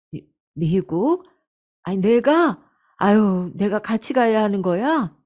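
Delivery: stammered, rising disbelief; startled mother-in-law, questions lifting at the end; taken aback. Acted. 갑작스러운 미국행 제안에 놀람. (당황해서 되묻는 말투)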